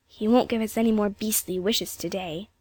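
put-on flatly resigned child; deadpan young girl. A narrator's reading. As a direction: say it as a glum little girl, tune kept level. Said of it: "said Jane flatly".

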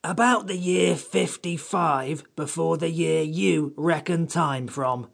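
high-pitched, cross little creature. Acted. Samiad answering the children's questions, crossly. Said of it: "said the Samiad crossly".

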